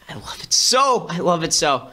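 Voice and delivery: lightly voiced Patton relish; a hint of Patton savouring it; mock Patton. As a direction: savour it like a general.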